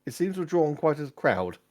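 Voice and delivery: put-on mild young servant voice; young squire. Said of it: "a young squire enters your tent".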